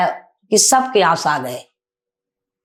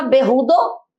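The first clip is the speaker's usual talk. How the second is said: retold angry scolding; 3 semitones higher than usual. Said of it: "इतनी गुस्सा आ गया".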